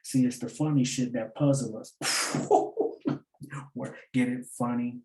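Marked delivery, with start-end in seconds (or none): 2.0-3.2 breathy high-pitched cackle; airy squeal of a laugh; wheezing high laugh. Real, not acted. Laughs at own wordplay.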